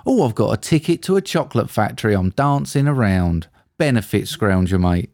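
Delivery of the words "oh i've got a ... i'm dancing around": higher, lightly put-on gleeful old man; mocking Grandpa Joe.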